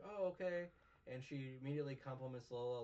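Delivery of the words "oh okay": mock high voice. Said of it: "she's like".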